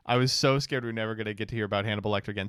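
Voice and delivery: rattled off fast, same words again at speed; fast mock-scared rattle; fast repeat. Shown as a demonstration. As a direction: rush through it in one breath. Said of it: "repeats the line faster".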